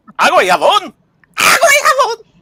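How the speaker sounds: Mexican dubbing-style voice. Imitating lines from the Mexican Spanish dub: Mexican Spanish dub voice. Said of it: "you do that way too well".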